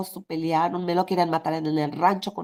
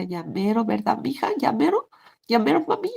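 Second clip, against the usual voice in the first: pleading husband; 4 semitones higher than usual. Retold or imitated.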